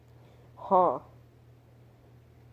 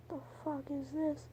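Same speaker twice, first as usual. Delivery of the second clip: a hushed, higher mutter to himself; whisper to himself; 9 semitones higher, 11 dB quieter than usual. Retold or imitated. Confused by his calculus paper, hushed to himself. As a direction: breathe it under your breath over the homework. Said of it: "and I whisper to myself".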